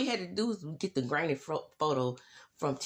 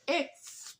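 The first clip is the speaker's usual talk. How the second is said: excited exclaim; 8 semitones higher than usual. Real, not acted. Hyping the explosive finale.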